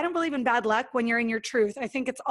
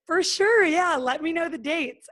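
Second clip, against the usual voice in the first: mock calm reply; 4 semitones higher than usual. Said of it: "I very calmly was like".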